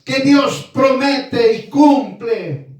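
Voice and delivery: mock shouting complaint. A complainer yelling at God that he was promised. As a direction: wail it like someone demanding what was promised. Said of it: "Y empieza a gritar".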